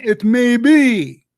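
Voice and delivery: drawn-out, heavy stress on each word; slow emphatic quote. Real, not acted. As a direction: lean hard on every word. Quoting the key words slowly.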